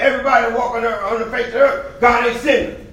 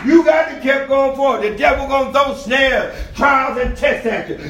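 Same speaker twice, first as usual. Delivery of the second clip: preaching at full force. Real, not acted. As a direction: drive the sermon home to the congregation.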